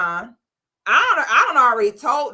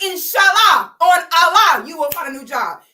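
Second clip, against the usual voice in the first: mock devout blessing; 5 semitones higher, 6 dB louder than usual. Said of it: "you need to be like".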